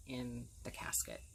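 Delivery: dropping to a real whisper. Real, not acted. Telling viewers about her father's casket, whispered. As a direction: let it fall to a breath. Grief over father's funeral.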